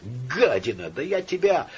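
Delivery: rising enraged threat; angry threat. Acted. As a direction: spit it at the enemy. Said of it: "вскричал во сне Турбин".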